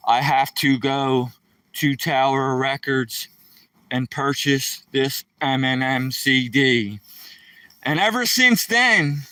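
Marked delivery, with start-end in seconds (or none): 0.1-7.0 slow, level robot voice, no melody; monotone robot. Retold or imitated. Stunned by the album, telling daughter in robot monotone. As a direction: drone it out like a dazed robot. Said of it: "in a monotone voice, like a robot".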